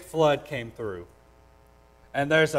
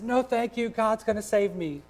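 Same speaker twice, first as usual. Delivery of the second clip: stubborn stranded man; 8 semitones higher than usual. Retold or imitated. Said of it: "he says".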